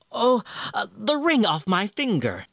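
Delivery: high, unsure maiden voice; hesitant maiden. Acted. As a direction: falter before offering the ring.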